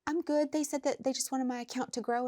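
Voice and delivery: a hint of the client's voice; imitating client. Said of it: "And she's like".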